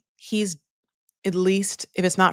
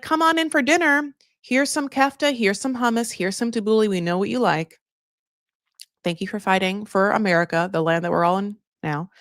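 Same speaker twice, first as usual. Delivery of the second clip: welcoming hosts; 3 semitones higher than usual. Retold or imitated. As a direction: invite the soldiers in like a doting auntie. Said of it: "be like".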